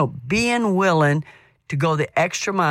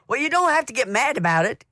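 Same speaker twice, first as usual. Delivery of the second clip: husband complaining; 9 semitones higher, faster than usual. Retold or imitated. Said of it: "so then he says".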